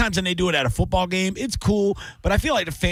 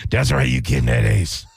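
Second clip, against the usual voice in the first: mock Dave Moore; 4 semitones lower, 3 dB louder than usual. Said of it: "Dave Moore's like".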